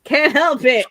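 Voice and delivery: said through a yawn. Real, not acted. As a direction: yawn while saying it. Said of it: "Stop yawning".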